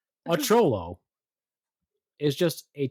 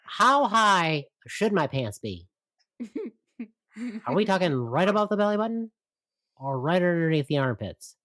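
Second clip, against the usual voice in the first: impression of a white guy; 3 semitones higher than usual. Friends teasing, mocking a white guy's slang, lightly nerdy. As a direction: ham up a square suburban dude. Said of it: "you say it like this".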